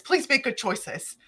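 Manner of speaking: imitating a patient, careful appeal; measured pleading. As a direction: plead slowly, keeping the volume down. First take of retold plea.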